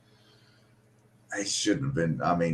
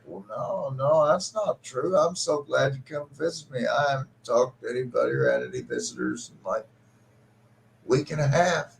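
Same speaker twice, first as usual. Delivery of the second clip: father pleading, near tears; 4 semitones higher than usual. Retold or imitated. Dying father telling his son he's lonely, tearful plea. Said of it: "And he starts crying".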